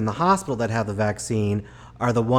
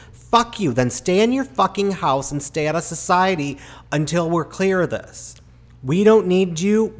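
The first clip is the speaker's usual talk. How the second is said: louder and higher, building to a shout; furious rant; 5 semitones higher, 6 dB louder than usual. Real, not acted. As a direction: let the anger boil over at the selfish. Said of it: "I'm fucking pissed".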